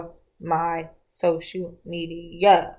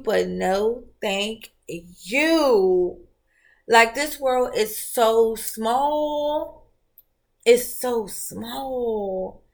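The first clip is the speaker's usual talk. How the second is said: drawn-out sass; much slower than usual. Real, not acted. Drawn-out sign-off to her post.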